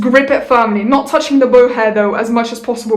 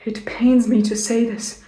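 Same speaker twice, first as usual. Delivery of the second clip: mock pained reluctance; 5 dB quieter than usual. Mock reluctant confession before British bit.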